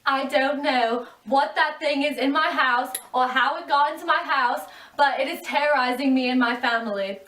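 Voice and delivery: distraught mother. Acted. Terrified Mrs Samsa interviewed.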